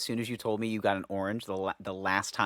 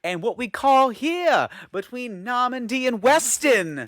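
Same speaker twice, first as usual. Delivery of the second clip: mock movie voice; 13 semitones higher, 7 dB louder, slower than usual. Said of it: "movie quote".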